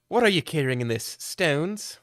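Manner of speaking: put-on British accent, rising in disbelief at the end; incredulous British gentleman, straining under luggage. Player character asks the stranger about his heavy luggage, British accent. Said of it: "how I'm saying things in this British accent".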